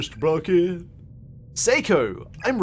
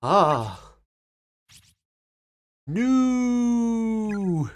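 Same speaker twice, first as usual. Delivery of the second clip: shocked cry; 3 semitones higher than usual. Acted. Naomi finds Seiko hanged.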